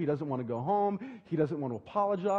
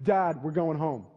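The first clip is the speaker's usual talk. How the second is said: louder, slow and firm, flatly insisting; stubborn son; 5 dB louder, slower than usual. Retold or imitated. Son refuses the walk, louder slow stubborn insistence. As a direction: lay down the law like a sulky kid.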